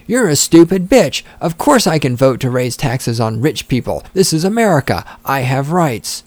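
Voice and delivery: mock the entitled voter like a bratty teen; mock liberal brat. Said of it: "let's insert some other stuff".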